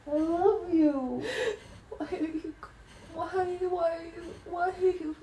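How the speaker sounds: laughing through tears. Acted. Crying confession.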